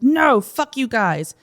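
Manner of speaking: drawn-out hammed-up defiance; angry refusal, retold. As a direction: imitate an angry man refusing to leave. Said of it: "aggressive and angry".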